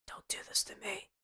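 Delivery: high, soft, airy whisper; whispered plea. Pretend. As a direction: squeeze out a tiny whispered plea.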